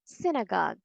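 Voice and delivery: synagogue as SIN-uh-gahg; short I. Shown as a demonstration. Teacher offers the third reading, short I. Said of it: "How do you read this word?".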